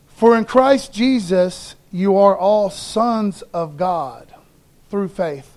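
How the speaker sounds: slow, measured reading of the verse; scripture reading. Acted. Preacher reading Galatians to congregation, slow and measured. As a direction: read it out slowly and deliberately.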